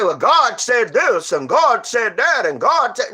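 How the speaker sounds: slow, mocking parrot of the pious; slow sarcastic imitation; mocking know-it-alls. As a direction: drag it out like a smug church-goer. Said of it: "Everybody always say".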